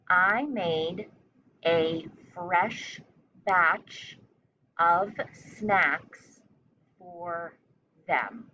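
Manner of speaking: chunked into short phrases with pauses between; teacher dictating a sentence; slow dictation. Shown as a demonstration. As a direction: dictate it piece by piece for young spellers. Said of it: "The sentence one more time all together".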